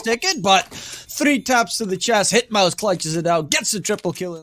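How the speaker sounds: steady live play-by-play call; esports caster. Acted. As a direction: narrate the retake as it unfolds. Casting the retake live.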